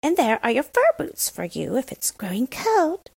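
hushed whispered aside. Acted. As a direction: slip it to her in a whisper. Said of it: "said she".

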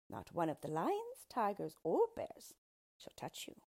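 a small creature greeting the queen; yellow dwarf. Acted. Dwarf greets the frightened queen, lightly voiced sly.

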